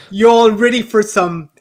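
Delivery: halting, badly faked British accent; attempted British accent. Shown as a demonstration. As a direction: have a reluctant go at a British accent, fighting giggles. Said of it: "give us your British accent".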